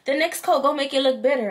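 high, sweet mock reassurance from the nail tech; imitating the nail tech. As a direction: chirp it like a salon worker soothing a client. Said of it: "She said".

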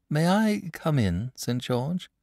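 slow, polite request. A narrator's reading. Boy politely asking the saint to enter. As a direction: ask courteously at the door. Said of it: "said the boy politely".

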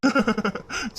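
short, quiet laugh; soft chuckle. Acted. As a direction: chuckle gently before replying. Son responds to weeping mother.

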